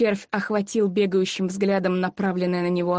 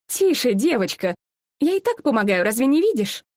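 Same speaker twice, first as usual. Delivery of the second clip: louder, sharp reassurance; brisk impatient woman; 3 semitones higher, 3 dB louder than usual. Acted. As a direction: hush the girl briskly. Woman scolds frightened girl. (нетерпеливо успокаивает)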